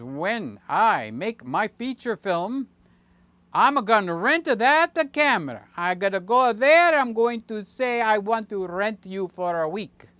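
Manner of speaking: hammed-up teen excitement; mock young Sammy. Imitating friend Sammy planning his feature film, mildly hammed-up. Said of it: "he doesn't talk like that. I'm talking like that".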